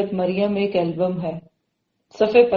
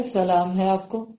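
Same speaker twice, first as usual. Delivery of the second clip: slower, subdued peace greeting; forbearing son; 2 semitones lower, 4 dB quieter than usual. Acted. Son replying to dismissive father, peaceably. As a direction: give the salaam slowly, without retort. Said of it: "بیٹا کیا کہہ رہے".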